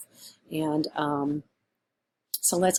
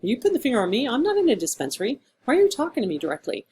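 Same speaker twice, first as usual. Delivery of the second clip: mock indignation; 4 semitones higher, faster than usual. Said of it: "And we're like".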